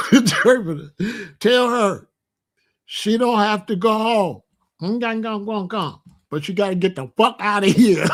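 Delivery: hammed-up interpreter relaying the order. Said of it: "Give me an interpreter for the Chinese lady".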